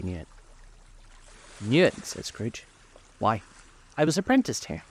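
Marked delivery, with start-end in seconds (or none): 1.6-2.0 higher, exclaimed question; surprised echo question. A narrator's reading. Scrooge, asked if he knows the warehouse: surprised exclamation. 3.2-4.8 higher, excited exclamation; delighted recognition. A narrator's reading. Scrooge sees where he was apprenticed: excited recognition.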